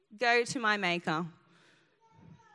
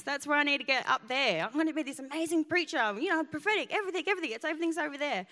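higher, rushed protest about her vision; insist, pitched up and hurried; excited arguing, voice raised high; eager protest; 4 semitones higher, faster than usual. Retold or imitated.

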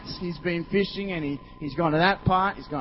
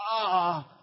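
weary groan. Acted. Groan at a bad day.

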